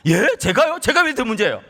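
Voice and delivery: high-pitched incredulous questions; retold indignant protest. Father arguing back to God, incredulous and protesting. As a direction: act out taken-aback arguing. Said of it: "막 따졌어요".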